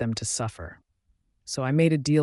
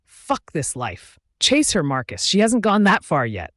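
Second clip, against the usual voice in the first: wolf in agony; 4 semitones higher, 6 dB louder than usual. A narrator's reading. Inner wolf urging Marcus, anguished cry. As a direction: beg him to run after her. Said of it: "my wolf cried in agony".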